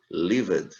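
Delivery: "Lived" ending in a voiced D; final D sound. Shown as a demonstration. Teacher models "Lived" for English learners, final D sound. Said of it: "aqui já tem um sonzinho de D".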